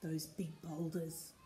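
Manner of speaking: emphatic, rhythmic reading; story narration. A narrator's reading. Reader hurries the fleeing crew back, story narration. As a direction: drive the refrain along phrase by phrase.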